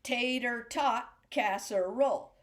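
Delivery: syllables evenly spaced; measured demo. Shown as a demonstration. Music teacher presenting the next phrase, measured demo. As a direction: lay out the phrase beat by beat. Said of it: "now this next one".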